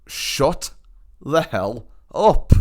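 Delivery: slow, word-by-word annoyance; mock silent fury, deliberately paced; retold exasperation. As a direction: space the words out, fed up. Retold angry thought at heckler.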